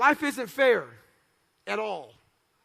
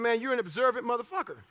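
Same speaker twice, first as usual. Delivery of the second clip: laughing retort; 4 dB quieter, faster than usual. Retold or imitated.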